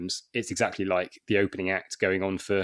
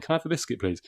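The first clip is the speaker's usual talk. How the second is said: put-on childlike asking; 6 semitones higher, 3 dB quieter, faster than usual. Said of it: "feel like a child going".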